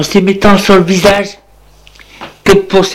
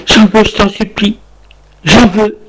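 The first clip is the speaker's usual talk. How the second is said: high begging; 5 semitones higher than usual. Acted. Wife begging on floor.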